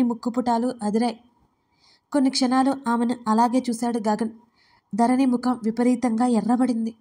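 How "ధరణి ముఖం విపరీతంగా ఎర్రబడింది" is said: plain reading voice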